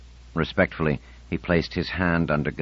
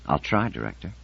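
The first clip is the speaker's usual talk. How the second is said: dubious. Acted. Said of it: "You say that dubiously".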